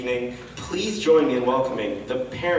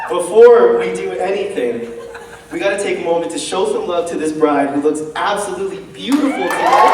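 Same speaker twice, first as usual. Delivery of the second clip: excited; 3 semitones higher, 5 dB louder, faster than usual. Real, not acted. MC gushing over the bride.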